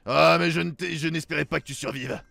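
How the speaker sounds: low menacing villain voice; a lightly voiced smug villain; booming echoing villain monologue. Reads the villain's dialogue.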